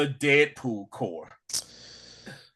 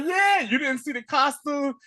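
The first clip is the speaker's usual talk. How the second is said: mock excitement; 10 semitones higher than usual. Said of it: "he was like".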